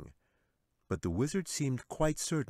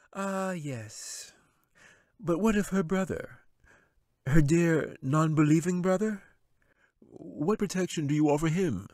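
taunting wizard; 9 semitones higher, 6 dB louder than usual. A narrator's reading.

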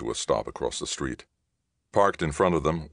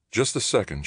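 interrupting; 7 semitones higher than usual. Acted. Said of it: "she interrupted".

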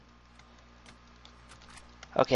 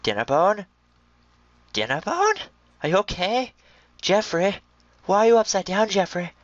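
put-on high baby-talk to a pet; talking to a pig; 8 semitones higher, 4 dB louder than usual. Gamer fussing over upside-down pig, high baby talk.

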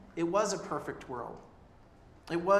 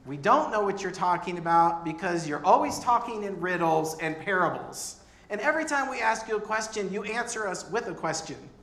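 exasperated Thomas; 2 semitones higher, 4 dB louder than usual. Retold or imitated. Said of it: "hear in Thomas's voice".

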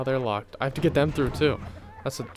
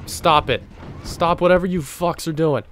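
louder, higher yell at the units; angry yell at the screen; 5 semitones higher, 4 dB louder than usual. Real, not acted. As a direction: order them to stop, annoyed. Yelling at game characters.

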